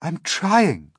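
high, harried little glowworm; put-upon glowworm voice; poor glowworm. Acted. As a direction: plead loudly in a high voice. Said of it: "answered the poor glowworm".

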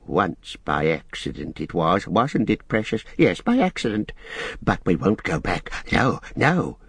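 lightly voiced nervous creature; Gollum, defensive. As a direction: protest in a mild creature voice.

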